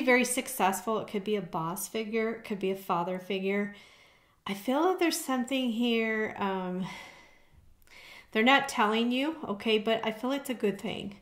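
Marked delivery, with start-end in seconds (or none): 4.5-11.2 breathless after running up stairs; out of breath. Real, not acted. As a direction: talk while catching your breath. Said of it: "sorry, I'm out of breath".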